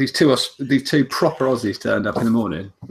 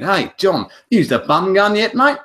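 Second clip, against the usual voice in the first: imitating Aussie bloke; 8 semitones higher, 4 dB louder, slower than usual. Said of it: "he went".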